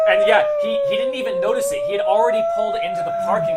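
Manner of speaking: high laughing narration. Real, not acted. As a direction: talk while cracking up.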